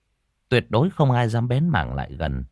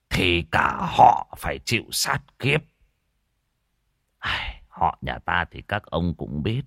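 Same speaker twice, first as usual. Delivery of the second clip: put-on lightly lowered, grave old elder warning; a hint of an old elder. Village elder warns the clan of a curse, grave. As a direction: speak like a village elder foretelling doom. Elder's long ominous speech.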